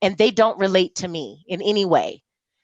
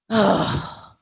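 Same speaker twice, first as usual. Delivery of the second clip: exasperated "ugh"; short groan of frustration; frustrated groan. Retold or imitated. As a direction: let out a fed-up sigh of frustration. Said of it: "I'm just frustrated".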